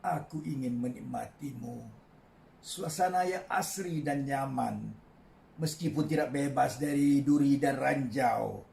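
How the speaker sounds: measured poetry reading with long pauses; poem recitation. Acted. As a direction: recite line by line, letting phrase endings fall. Poet recites own poem. (deklamasi sajak yang tenang)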